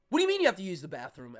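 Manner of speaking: loud, rapid indignant challenge; mock outraged staff; ripping into someone. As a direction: snap it out fast, as a scolding. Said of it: "they literally immediately ripped into me".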